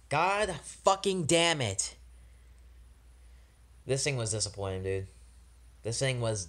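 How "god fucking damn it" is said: frustrated outburst. Real, not acted. Repeated, louder frustrated outburst.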